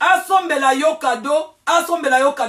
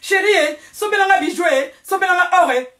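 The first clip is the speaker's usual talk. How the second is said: higher-pitched mock wife asking her husband; wife's pleading request; 3 semitones higher than usual. Wife asks her husband for jewels, mock pleading. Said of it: "Pourquoi loba mobali na yo ke".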